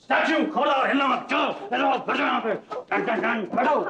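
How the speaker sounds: playful high shout. Pretend. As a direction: shout like a kid at play. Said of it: "लेकिन आप ऐसे क्यों बोल रहे हैं?".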